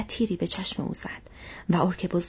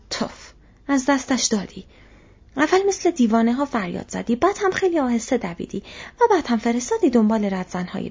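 quick, raised-pitch telling-off; angry scolding; 4 semitones higher, 5 dB louder than usual. Acted. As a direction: scold him fast and scornfully. Tracker scolds soldier in quarrel. (سرزنش تند و عصبانی)

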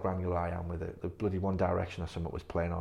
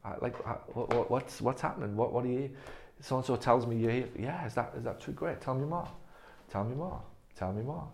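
higher, eager voice greeting a patient at the door; bright welcoming clinician, keen to hear more; upbeat welcoming host; 5 semitones higher than usual. Shown as a demonstration. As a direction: beam and pull the patient in with curiosity. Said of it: "So even look at those".

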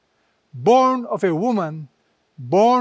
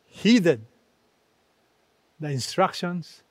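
usual speaking voice

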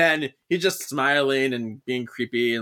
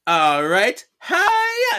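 tags=1; 9 semitones higher, 5 dB louder, much slower than usual. Retold or imitated. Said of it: "She's like".

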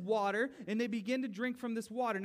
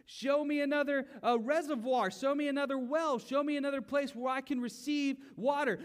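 loud, insistent demand to God; loud pleading prayer; 4 semitones higher, 4 dB louder than usual. Retold or imitated. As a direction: cry out for water, pushing hard. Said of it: "And you're gonna be like".

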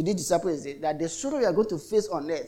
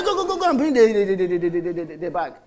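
flustered nurse impression; 3 dB louder than usual. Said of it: "I mean".

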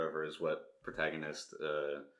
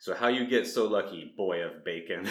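put-on Vlad, Eastern European accent; 4 dB louder than usual. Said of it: "imagine I sound like an Eastern European".

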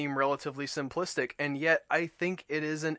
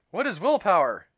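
Toad voice; 6 semitones higher, 8 dB louder than usual. A narrator's reading. Toad asks Frog, puzzled.

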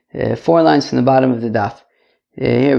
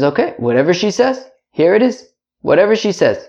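higher, casual husband; 5 semitones higher than usual. Acted. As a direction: shrug it off as the husband. Voicing the husband.

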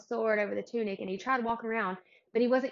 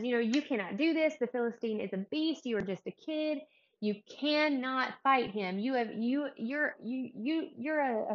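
emphatic objection, slightly raised pitch; acted protest; 4 semitones higher, 3 dB louder than usual. Podcaster voicing Saul doubting young David, emphatic protest. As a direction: insist on it as a retold, lightly acted warning.

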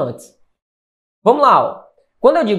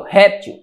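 "Réptil" with RÉP hit, til light; first-syllable stress. Shown as a demonstration. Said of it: "eu coloco a sílaba aqui".

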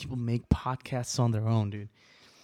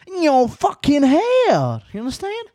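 loud, much higher repeat of the threat; furious yell; 12 semitones higher, 9 dB louder than usual. Real, not acted. To the insulting friend, a furious loud repeat. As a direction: spit the words out at full anger. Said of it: "I'm riled up".

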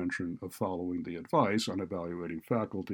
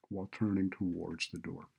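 ordinary delivery, nothing marked

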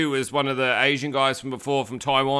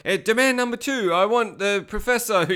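high, hammed-up fake Asian accent; clumsily imitated Asian accent; terrible Asian accent; 7 semitones higher than usual. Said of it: "really terrible Asian accent".

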